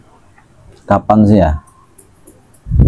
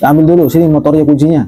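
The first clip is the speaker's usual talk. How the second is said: a touch higher, demanding cop; stern policeman; 5 semitones higher, much faster than usual. Acted. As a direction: confiscate the bike like a strict officer. Policeman orders student.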